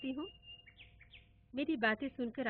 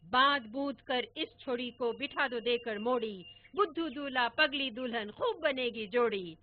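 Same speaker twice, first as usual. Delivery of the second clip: loud playful couplet; teasing rhyme; 7 dB louder than usual. Retold or imitated. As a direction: tease like a mischievous grandpa. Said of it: "पर दादा चुप ही ना होते".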